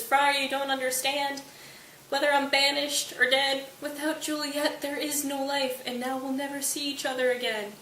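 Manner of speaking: high-pitched melodramatic protest; mock wailing Romeo. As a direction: plead as a hammed-up doomed lover. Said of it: "crying and wailing and rolling around".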